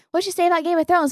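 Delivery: suspicious surprise. Retold or imitated. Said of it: "Delton's like".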